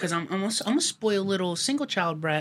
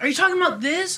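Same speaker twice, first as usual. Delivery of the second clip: mom asking; 10 semitones higher than usual. Retold or imitated. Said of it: "I'm like".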